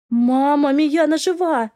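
high, slow, happy announcement; joyful news. A narrator's reading. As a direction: lift Мияна high with delight. Girl tells mother sister lives.

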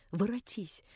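the first soft plea to turn back; quiet pleading. A narrator's reading. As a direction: beg her gently under the breath. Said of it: "умолял я её".

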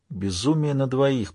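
a slow, hushed aside; whispered. Acted. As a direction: breathe it out slowly and quietly. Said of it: "прошептал Джей".

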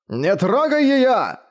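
very high, slow pleading cry; father crying out as Leiral lifts his daughter, very high and slow; desperate cry. Acted. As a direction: stretch it out high, begging him to stop. Father shouts to protect daughter.

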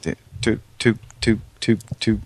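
tooting a rhythm; tooting train sound. Shown as a demonstration. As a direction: toot toot like a train whistle. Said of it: "Like that".

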